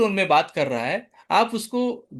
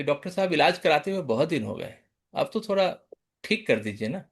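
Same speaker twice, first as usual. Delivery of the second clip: polite patient; 4 semitones lower, 4 dB quieter, faster than usual. Shown as a demonstration. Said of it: "polite बोल रहा है".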